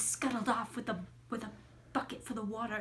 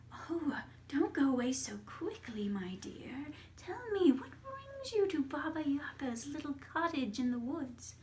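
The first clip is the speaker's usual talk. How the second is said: Baba Yaga; 4 semitones higher than usual. Acted. Baba Yaga coaxes her niece.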